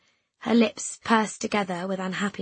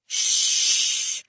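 whispered hush; quiet, shaking shush. Acted. Frightened girl hushing her friend, quiet and shaking. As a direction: shush them in a voiceless breath. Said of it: "let out a quiet, shaking".

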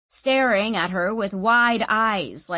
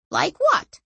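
eager question; 11 semitones higher, 4 dB louder than usual. A narrator's reading. Orso eager for examples.

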